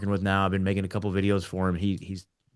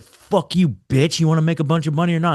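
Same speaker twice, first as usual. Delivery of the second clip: higher-pitched mock insult and hard sell; play-acted cocky cussing; retold trash talk; 6 semitones higher, 4 dB louder than usual. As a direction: imitate a brash caller firing back. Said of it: "like, cussing at people, trash talking people".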